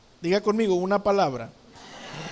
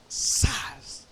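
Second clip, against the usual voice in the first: hushed, drawn-out "zas" of a slap; soft whispery smack noise; imitated slap; 7 semitones lower, 5 dB quieter than usual. Preacher recalls an unexpected schoolyard slap, hushed sound effect.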